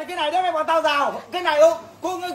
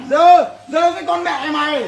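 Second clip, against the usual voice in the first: slow furious shout; 4 dB louder, slower than usual. Real, not acted. Heated neighbour quarrel, cursing.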